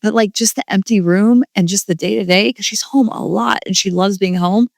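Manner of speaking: real tearful, high voice; choked up, talking through rising tears; tearing up. Real, not acted. Mom to viewers about her daughter leaving, tearful. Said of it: "I'm tearing up".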